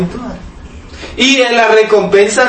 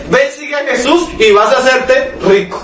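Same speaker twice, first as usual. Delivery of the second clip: mocking imitation; 5 semitones higher than usual. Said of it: "Hoy no, hoy es".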